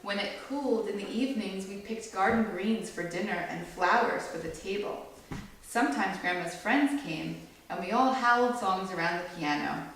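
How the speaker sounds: gentle storybook read-aloud; read-aloud to a small audience; reading to children. A narrator's reading. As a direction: read it like a picture book for kids. Reads picture book to children.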